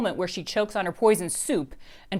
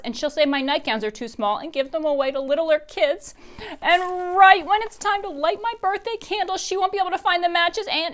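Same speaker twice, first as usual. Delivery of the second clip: put-on high, loud woeful child; a dramatic little girl lamenting her fate; Dory voice; 8 semitones higher, 7 dB louder than usual.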